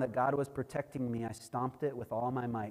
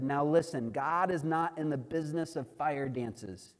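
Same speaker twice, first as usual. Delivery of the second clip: mildly raised, emphatic preacher's address; retold preaching to villagers. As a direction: proclaim it firmly to a gathered crowd.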